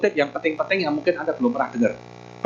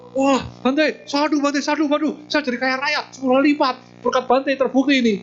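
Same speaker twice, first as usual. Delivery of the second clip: much higher, delighted gushing; a newly rich son thanking the monk in delight; overjoyed thanks; 8 semitones higher than usual. Acted. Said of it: "Seneng banget anak ini". (gembira sekali, suara jauh lebih tinggi)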